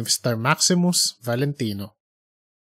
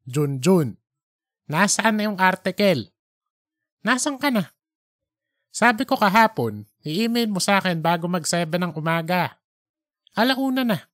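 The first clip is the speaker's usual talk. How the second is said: raised, higher editor voice; stern editor; 4 semitones higher than usual. Acted. Editor scolding Junjun over the missing article, impatient. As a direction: scold the late writer from above.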